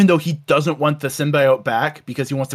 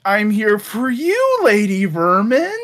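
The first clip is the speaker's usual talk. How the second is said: slow, hammed-up flirty come-on; drawn-out fake sweet talk; mock seductive; 2 semitones higher, slower than usual. Spider-Man sweet-talking the rat lady, slow and mock seductive. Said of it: "goes like".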